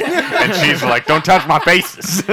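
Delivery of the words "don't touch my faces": slow, high, loud hammed-up warning; mock outraged yell. Sister guarding her bag in a retold spat, mock outraged.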